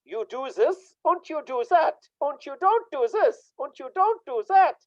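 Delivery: high, barked father's orders; strict German father. Retold or imitated. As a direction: mimic a bossy father laying down rules. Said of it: "who brought me up in a German way".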